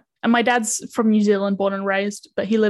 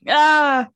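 louder, higher "ah" of dismay; mock dismayed groan; 6 semitones higher, 6 dB louder than usual. Recalling sad auditions, mock dismayed groan. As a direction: let out a pained mock "ah".

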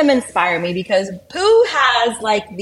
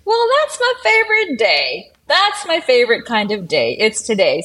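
Pooh voice; 3 semitones higher than usual. Retold or imitated. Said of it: "And then Pooh's like".

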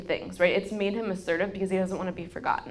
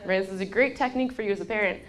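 real laugh; faster than usual. Real, not acted. Laughing at being graded.

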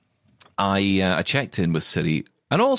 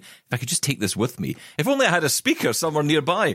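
1 inner voice; 9 semitones higher than usual. Retold or imitated. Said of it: "you just think".

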